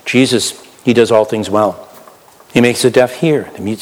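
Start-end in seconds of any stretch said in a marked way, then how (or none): none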